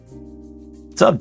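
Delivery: ordinary delivery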